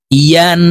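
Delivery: ইয়ান alone with a full y-glide; clear Ya. Shown as a demonstration. Teacher showing how to read it, clear y in ইয়ান. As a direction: say ইয়ান starting from mid-tongue. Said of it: "এভাবে পড়তে হবে".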